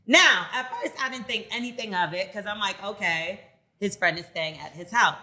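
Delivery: measured, emphatic read with dramatic pauses; reading a letter aloud. Acted. Host reads a listener's dilemma to co-hosts, emphatic read-aloud. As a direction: land key words hard, then pause.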